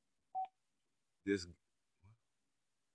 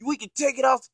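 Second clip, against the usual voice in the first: loud, higher mock challenge to fight; imitated furious shout; 11 semitones higher, 9 dB louder than usual. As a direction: yell the threat, hammed-up. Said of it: "He said".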